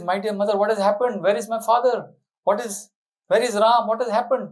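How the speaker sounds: alarmed son. Acted. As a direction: press her anxiously for answers. Bharat finds the palace gloomy.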